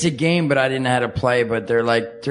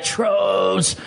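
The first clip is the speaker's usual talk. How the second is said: drawn-out, higher mock shout; playful troll cry; 5 semitones higher than usual. Playing with painted trolls at home, mock troll shout. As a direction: call it out like a toy troll.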